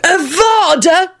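slow high curse cry; menacing curse. A narrator's reading. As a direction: hurl the curse.

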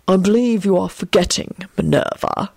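languid, yawning put-on voice; Snape. A narrator's reading. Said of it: "Snape yawned from his portrait".

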